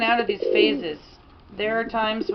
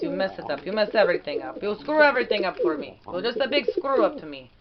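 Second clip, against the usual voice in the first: Petrie's voice; 2 semitones higher than usual. Pretend. The owner voicing her pigeon Pete complaining about her, in a mild made-up accent. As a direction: speak for the pigeon with mock grumbling in an invented accent. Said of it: "It's a made-up accent. But it is Petrie's voice".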